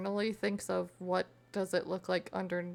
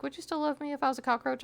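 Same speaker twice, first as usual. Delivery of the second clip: mock asking; 5 semitones higher, 4 dB louder, faster than usual. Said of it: "If they're like".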